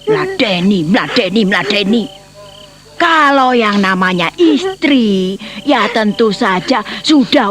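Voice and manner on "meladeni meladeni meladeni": mocking echo. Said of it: "pertanyaanmu itu seperti orang gemblong".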